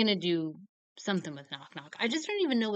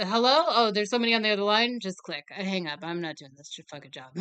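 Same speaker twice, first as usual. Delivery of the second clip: mock server voice; 4 dB louder, faster than usual. Her old service job, hanging up.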